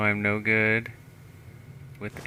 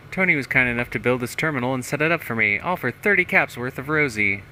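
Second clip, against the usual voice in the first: tag; 4 semitones higher, 4 dB louder than usual. Acted. Reads terminal entry in mayor's voice.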